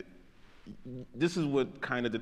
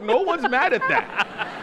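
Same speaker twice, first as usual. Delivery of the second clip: slow, high words through real laughter; giggling through the words; laughing; 14 semitones higher, 5 dB louder, slower than usual. Real, not acted. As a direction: let the laugh carry the line. Laughing at own poop joke.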